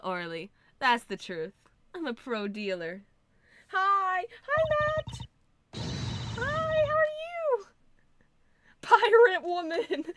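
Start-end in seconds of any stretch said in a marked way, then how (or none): 3.7-7.7 very high, sing-song hello; excited greeting. Real, not acted. Streamer greeting viewer Matt, very high sing-song hello. 8.8-10.1 loud, higher, slow cry with a laugh; delighted shout. Real, not acted. Streamer cheering the pirate witness, loud laughing cry.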